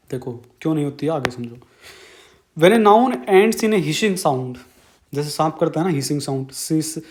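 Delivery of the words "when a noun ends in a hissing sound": each word drawn out slowly for notes; slow dictation. Shown as a demonstration. Teacher dictating rule for notes. (धीरे-धीरे लिखवाना)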